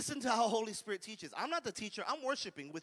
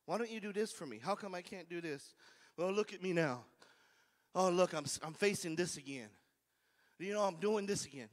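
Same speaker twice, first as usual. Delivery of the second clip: complaining tone; 4 semitones lower than usual. Retold or imitated. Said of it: "Or was the tone".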